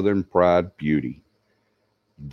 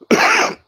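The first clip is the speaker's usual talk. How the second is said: cough; 4 dB louder than usual. Real, not acted. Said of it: "excuse me".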